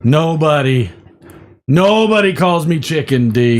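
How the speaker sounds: indignant. Acted. Answering a friend who called him chicken, indignant. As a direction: bristle at being dared. Acted scene, dared as chicken.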